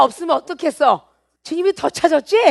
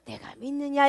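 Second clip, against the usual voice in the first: soft, unforced "내가 믿느냐"; gentle; 8 dB quieter than usual. Shown as a demonstration. Preacher shows the Lord's kinder way of asking, "내가 믿느냐" said gently. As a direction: ease off and ask "내가 믿느냐" softly. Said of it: "이러고 부드럽게 나올 수도".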